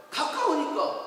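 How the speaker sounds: ordinary talk, nothing marked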